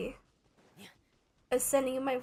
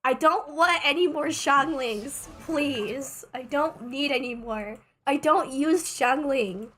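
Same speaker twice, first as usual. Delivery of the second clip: slow, louder frustrated pleading; raging gamer; 4 dB louder, slower than usual. Real, not acted. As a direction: complain slowly at the game. Pleading against more Xianglings.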